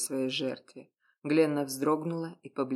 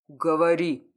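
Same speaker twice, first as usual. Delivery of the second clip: a much louder, sharp commanding bark; loud commanding order; 9 dB louder than usual. A narrator's reading. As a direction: command her to talk, full authority. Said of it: "громко и властно приказал".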